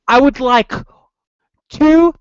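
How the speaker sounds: slow, high, loud imitation of a Davy Jones accent; mock a drawn-out Davy Jones pirate accent. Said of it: "It was like Davy Jones' accent".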